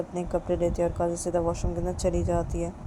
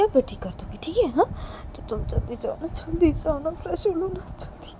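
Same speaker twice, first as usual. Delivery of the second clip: higher-pitched, anxious coaxing; pleading; 6 semitones higher than usual. Acted. Reshma begs Kajal to go freshen up, pleading. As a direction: urge her along, fading to a small plea.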